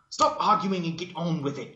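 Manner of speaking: high, loud exasperated yell; frustrated yell. Acted. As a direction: shout them down, fed up. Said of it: "yelled Twilight in frustration".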